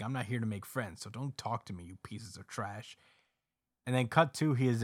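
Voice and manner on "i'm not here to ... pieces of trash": cold, quiet brush-off. Retold or imitated. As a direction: push them away quietly. Cold loner quote, fading quieter.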